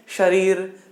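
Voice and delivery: "शरीर," with air rushing between tongue and palate; palatal sha. Shown as a demonstration. Teacher asking students to try it, palatal sha in "शरीर,". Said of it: "बोल करके देखें".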